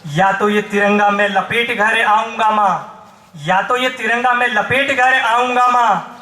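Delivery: rousing vow in driving, repeated rhythm; poem recitation. Acted. Soldier son answers his mother with a vow, declaimed.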